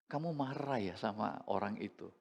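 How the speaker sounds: soft, calm father's question; gentle father. Retold or imitated. Father gently asking his angry son, soft and calm. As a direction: ask the boy softly, no blame.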